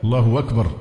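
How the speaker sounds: Allahu-wakbar, no hamza before أكبر; inserted waw glide. Shown as a demonstration. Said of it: "كأن في واو". (إبدال همزة «أكبر» واوًا)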